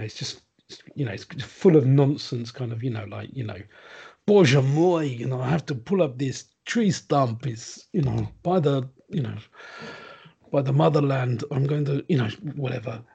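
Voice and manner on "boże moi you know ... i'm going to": lightly done bad Russian accent; a hint of a hammy Russian accent. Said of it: "my shit Russian accent".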